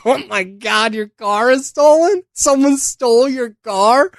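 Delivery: high, laughing fake disbelief; mock shock. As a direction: ham up the gasp of surprise. Mocking friend whose car was stolen.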